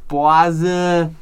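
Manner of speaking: "Boise" loudly as BWAH-zuh; BWAH-zuh mispronunciation. Shown as a demonstration. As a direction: say "Boise" with a wah vowel, ending in zuh. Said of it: "or whatever other weird pronunciation".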